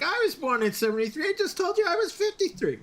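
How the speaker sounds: high, fast exasperated retelling; retold disbelief. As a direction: rattle it off high and quick, incredulous. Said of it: "I'm like".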